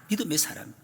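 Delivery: breathy whisper of 믿음의 사람; whispered repeat. Shown as a demonstration. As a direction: let 믿음의 사람 fall to a hushed whisper. (믿음의 사람을 속삭이듯)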